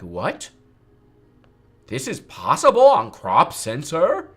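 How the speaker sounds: mind blown. Retold or imitated. Other photographers reacting to her website, loud mock amazement. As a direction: act stunned at what crop sensor can do. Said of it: "mind blown 'cause they're like".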